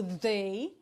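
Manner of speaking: "they" with a buzzing voiced TH; TH sonoro. Shown as a demonstration. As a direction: voice the TH at the start of "they". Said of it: "lembra que é T H com som". ("they" com TH sonoro, vibrando)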